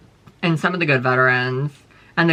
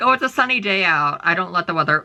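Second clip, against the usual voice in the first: mock cheerful. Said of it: "I'm not like".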